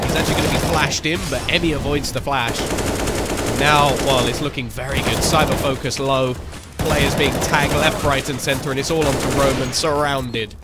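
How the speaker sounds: animated running esports commentary; live play-by-play. Real, not acted. Caster calling the retake as players get tagged, animated. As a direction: keep the call driving through the action.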